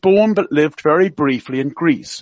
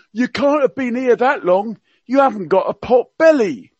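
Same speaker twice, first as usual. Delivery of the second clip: higher, hammed-up Cockney accent; Prince Philip in Cockney; 7 semitones higher than usual. Radio guest quoting royal gaffes to listeners, mock Cockney accent. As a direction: play the old duke's gaffes in mock Cockney. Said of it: "he spoke with a Cockney accent".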